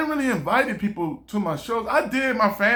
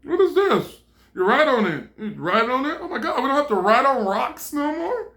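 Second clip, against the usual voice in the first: amazed villagers; 5 semitones higher than usual. Retold or imitated. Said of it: "The people were like".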